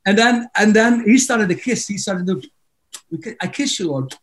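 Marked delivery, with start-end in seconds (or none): 3.1-4.1 softly imitating a devout worshipper; hushed imitated prayer. Worship leader telling the Lord of his love, hushed imitation. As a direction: murmur it as a mock-tender prayer.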